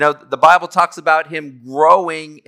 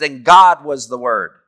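"And God was the Word" slow and louder, leaning on GOD; emphatic Greek order; 5 dB louder than usual. Shown as a demonstration. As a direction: put God first and hit it. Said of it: "it's much more emphatic than the English".

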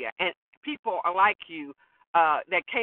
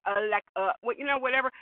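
lightly voiced Valley Girl; a hint of Valley Girl filler talk; Valley Girl imitation; 2 semitones higher than usual. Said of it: "Remember the Valley Girl?".

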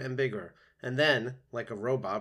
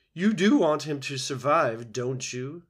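louder, higher insistent goose voice; squawking old goose; 4 semitones higher, 9 dB louder than usual. A narrator's reading. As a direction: press the robot like a bossy old goose. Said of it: "squawked the goose".

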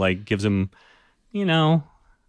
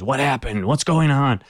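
demanding pirates; 5 semitones higher than usual. Acted. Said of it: "some of them start demanding answers".

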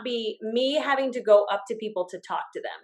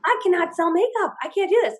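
laughing despair; 6 semitones higher, 4 dB louder than usual. Retold or imitated. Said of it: "I'm like".

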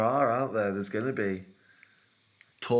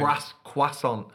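slow French Croiss-, croissant with a nasal end; 2 semitones higher, slower than usual. Shown as a demonstration. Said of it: "It's croissant".

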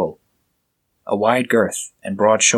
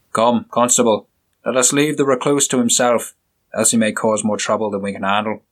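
the inspector, curt and scornful; stern inspector; 2 semitones higher than usual. Acted. Inspector leaving with constable.

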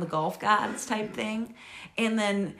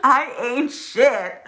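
panicked self-talk; 5 semitones higher, 9 dB louder, much slower than usual. Retold or imitated. Panicked self-talk watching golfers.

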